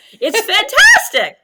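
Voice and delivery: a real laugh breaking into the word. Real, not acted. Host laughing about Ashley's workout videos. Laughs on her own example.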